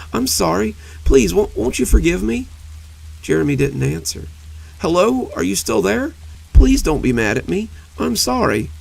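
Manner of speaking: desperate pleading. Acted. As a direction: plead frantically into the silence. Monster pleads, Jeremy won't answer.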